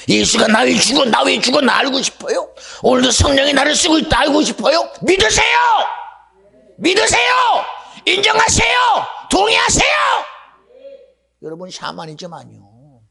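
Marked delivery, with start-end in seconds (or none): 2.8-9.9 high, shouted preaching; fervent exhortation. Acted. Preacher commanding the people to believe, shouting high. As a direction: urge the congregation with full force.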